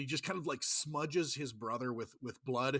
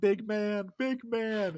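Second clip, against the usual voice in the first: mock slow, high, weepy blubbering sobbing cry; 8 semitones higher, 6 dB louder than usual. Describing a scene, the speaker imitates a man found crying in a closet. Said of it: "they find him like crying".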